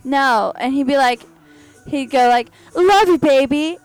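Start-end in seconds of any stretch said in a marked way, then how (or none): 2.8-3.8 cartoon character voice. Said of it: "talk in this cartoon character voice".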